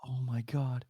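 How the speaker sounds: squealing high over a cute puppy; overwhelmed by cuteness. Real, not acted.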